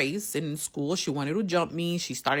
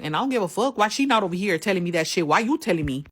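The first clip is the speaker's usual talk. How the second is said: higher, indignant retort; retold comeback; 3 semitones higher, faster than usual. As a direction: push back, a touch heated. Retold confrontation with homegirl.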